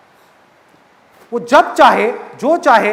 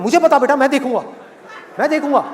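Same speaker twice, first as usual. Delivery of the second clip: hammed-up fatherly outrage; insistent father; 3 semitones higher than usual. Acted father insists he will handle it.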